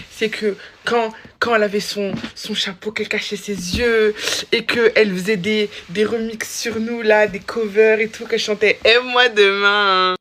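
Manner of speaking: loud, gushing fan declaration; excited fan. Real, not acted. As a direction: gush about your idol with all your heart. Gushing fan message to Neige.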